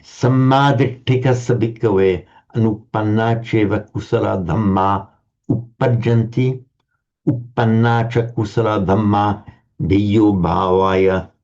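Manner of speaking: slow, even chanting recitation; Pali recitation. Acted. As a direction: intone the Pali text slowly.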